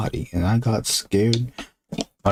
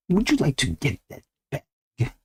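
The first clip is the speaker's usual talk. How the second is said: spooky host; 3 semitones higher than usual. Acted.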